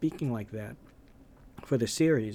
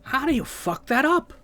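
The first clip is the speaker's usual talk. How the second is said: high, loud put-on voice; William Hurt quote, louder; 14 semitones higher, 6 dB louder than usual. Quoting William Hurt again to mock the series, higher and louder. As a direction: build the disbelief up. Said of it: "In the words of ... William Hurt".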